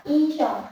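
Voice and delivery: isyong held slowly on one high flat pitch; first tone demo. Shown as a demonstration. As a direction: stretch out isyong, high and level. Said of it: "dibacanya tinggi datar".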